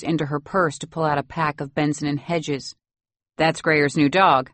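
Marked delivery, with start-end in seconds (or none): 3.4-4.5 mildly hearty, slow; forced cheer, understated; jovial. Acted. Father introducing the new puppy, mildly jovial. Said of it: "Mister X says jovially".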